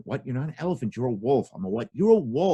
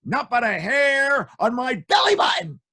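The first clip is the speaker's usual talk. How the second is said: high pig voice; 12 semitones higher than usual. Acted. Pig answering the wolf from inside.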